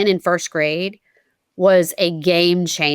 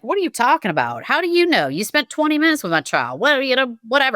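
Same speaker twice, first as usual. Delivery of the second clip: higher and quick, indignant pushback; scathing reply; 5 semitones higher, faster than usual. Retold or imitated. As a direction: fire back at the school, offended on her child's behalf. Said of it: "so I send this scathing reply".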